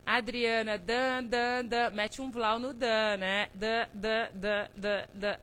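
"dan, dan" alto como fanfarra; chamado cantado. Real, not acted. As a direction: chame a atenção com um tan-tan-tan alto. Chamando alguém na live. ("dan, dan" alto e brincalhão)

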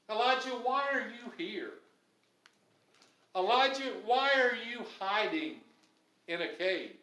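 God calling Elijah. Retold or imitated. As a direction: call him out of hiding. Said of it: "he said to him".

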